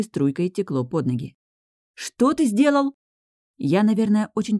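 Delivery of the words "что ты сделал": high, slow, shocked shout; shocked yell. A narrator's reading. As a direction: drag out the horror. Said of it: "мои вопли".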